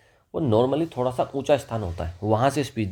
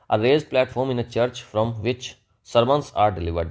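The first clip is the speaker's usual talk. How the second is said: slow dictation reading; much slower than usual. Shown as a demonstration. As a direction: read each English word out very slowly. Slow dictation of English definition.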